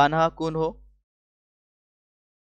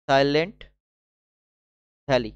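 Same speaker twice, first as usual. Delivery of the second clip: "Silent" held up, long pause, then "ভ্যালি" falling; word-by-word dictation; 4 dB louder than usual. Shown as a demonstration. Teacher dictating a park name to students, word by word. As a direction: split the name in two with a long gap.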